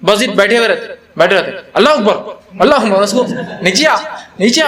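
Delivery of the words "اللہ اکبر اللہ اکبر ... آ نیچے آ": laughing as he mimics people calling the imam back down; a teasing take on the pushy worshippers; half-laughing imitation of men ordering the imam down; mocking worshippers. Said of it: "اس کو نیچے بلاتے".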